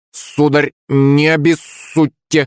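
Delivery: high, slow squawked farewell; parrot croak. A narrator's reading. Parrot Rambo bids farewell before flying off, slow squawk. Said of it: "каркнул Рэмбо".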